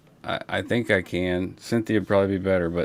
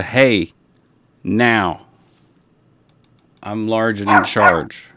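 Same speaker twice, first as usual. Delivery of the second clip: bossy dog; 6 dB louder, slower than usual. Pretend. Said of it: "that's a".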